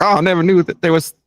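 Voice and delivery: high, admittedly poor impression of a clueless man; Karmix impression. Guest mimics a fish-out-of-water comic, poor impression. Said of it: "I can't do a good impression".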